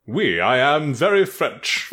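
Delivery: slow, exaggerated French accent; put-on French accent, drawn out; mock French accent. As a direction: ham up a bad French accent through laughter. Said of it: "that's how the French sound".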